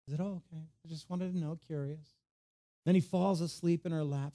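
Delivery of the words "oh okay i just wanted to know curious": lightly voiced innocent curiosity, higher and softer; a mock offhand little reply; feigned casual curiosity. Delilah covering her prying to Samson, feigned casual curiosity.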